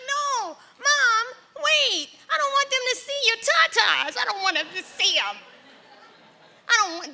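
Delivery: put-on very high, loud childish panic; panicked child. Daughter as a child, frantically begging her mother not to strip. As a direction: shriek like a horrified little girl.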